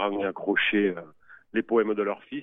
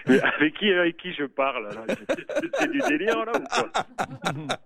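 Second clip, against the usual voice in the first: laughing in disbelief; 6 semitones higher than usual. Real, not acted. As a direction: laugh through the words. Caller's surprise prank reveal.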